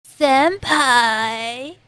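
Senpai! with a lightly imitated rising call; imitating her senpai. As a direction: tease out Senpai! lifting the end. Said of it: "That's how she sounds".

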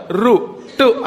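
రు టు with the tongue going up to the roof; retroflex sounds. Shown as a demonstration. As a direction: curl the tongue up for రు and టు. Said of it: "అనగానే ఈ పైకి వెళ్ళి తగులుతుంది".

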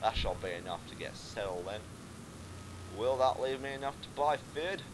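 accidental slide into Scottish; lightly put-on Scottish accent. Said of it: "I've gone Scottish now".

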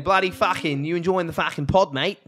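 broad mock Australian small talk; Australian accent. Starting a little conversation in Australian, hammed-up Australian accent. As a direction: chat like a cartoon Australian. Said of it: "little conversation in Australian".

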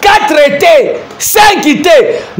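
slow, hammering preacher's emphasis; preaching. Acted. Pastor rejects taking three, four or five wives, slow and emphatic. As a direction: count them off and reject each one.

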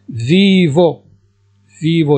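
"Vivo" called out high and loud; stressed word. Shown as a demonstration. Teacher to students, calling out "Vivo" loudly. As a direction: punch "Vivo" out to the class. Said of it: "teacher stressing key word".

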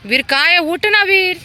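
high, loud pleading call. Real, not acted. Pleading with Veer to get up, high loud call.

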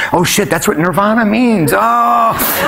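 mock-awed realization, pitch climbing; excited realization. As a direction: rise to a high, drawn-out cry. Acts out his sudden realization.

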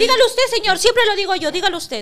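high, irritated handing-over; irritated refusal. Real, not acted. Host telling co-host to read the sponsor himself, irritated.

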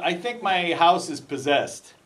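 loud, slow New York cop; New York accent, drawn out. Retold or imitated. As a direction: imitate a New York cop confiding, loudly. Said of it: "I shouldn't do a New York accent".

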